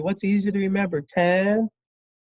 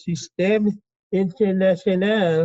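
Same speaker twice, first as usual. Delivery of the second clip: French accent. Shown as a demonstration. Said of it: "that's my French accent".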